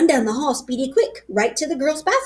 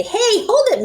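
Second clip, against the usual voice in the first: grouchy; 10 semitones higher, 4 dB louder than usual. A narrator's reading. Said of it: "a grouchy voice say".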